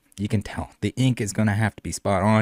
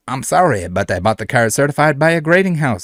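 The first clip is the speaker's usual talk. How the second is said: light mock French cowboy accent; 4 semitones higher, 3 dB louder than usual. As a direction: read the seller's reply in a lightly put-on French cowboy accent. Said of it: "They all get it".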